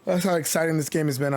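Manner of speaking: mid-yawn, words stretched. Real, not acted. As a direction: talk through a yawn. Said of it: "I'm yawning now".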